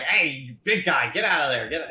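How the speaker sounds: half-hearted yell at someone in the way; mock yelling. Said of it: "yells at you saying".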